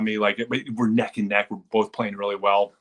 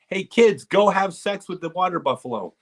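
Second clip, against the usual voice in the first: mock yell; 9 semitones higher than usual. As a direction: bellow the botched order across the field. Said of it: "He goes".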